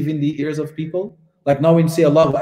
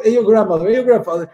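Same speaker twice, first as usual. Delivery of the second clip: high, louder mock inquiries; mimicked eager questioning; 5 semitones higher, 4 dB louder, much faster than usual. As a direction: pile on questions like an insistent greeter. Mimicking the endless family questions.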